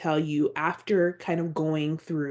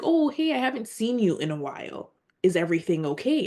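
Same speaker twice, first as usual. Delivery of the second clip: high-pitched imitation of a concerned coworker; casual check-in, quickly said; retold friendly greeting; 3 semitones higher, faster than usual. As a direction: greet her lightly, pitched up then settling. Older lady greeting her at work.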